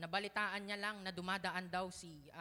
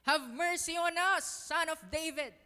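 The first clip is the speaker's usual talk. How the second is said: loud pleading cry, higher; crying aloud; 6 semitones higher, 10 dB louder than usual. Acted. Blind men crying aloud to Jesus for mercy, loud pleading cry. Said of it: "crying aloud".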